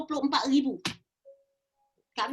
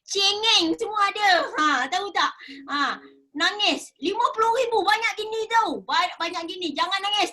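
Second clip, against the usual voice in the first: higher, louder scolding mother; 4 semitones higher, 3 dB louder than usual. Retold or imitated. Mother telling her tearful daughter not to cry, higher and louder. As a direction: push the tears away with a mother's scold. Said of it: "kata mak".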